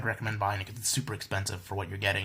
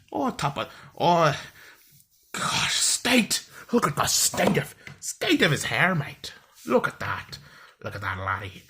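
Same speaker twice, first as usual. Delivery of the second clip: put-on loud, high Irish accent sliding into Scottish; hammed-up Irish-Scottish banter, exclaiming; attempted Irish accent; 6 semitones higher, 7 dB louder than usual. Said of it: "that's more like Scottish".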